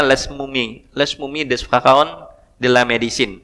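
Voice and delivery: "Les Mummies des Pharaons de la Médecine" in Indonesian-accented French; tentative French reading. Real, not acted. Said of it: "Barangkali itu ya bacanya ya". (membaca "Les Mummies des Pharaons de la Médecine" dengan logat Indonesia, ragu-ragu)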